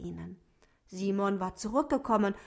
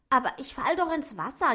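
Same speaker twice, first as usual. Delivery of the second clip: whining; 5 semitones higher, 5 dB louder, faster than usual. Acted. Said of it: "jammerte Otto".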